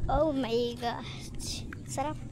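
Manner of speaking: breathy awed whisper. Real, not acted. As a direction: hush it out in awe. (pabulong na pagkamangha)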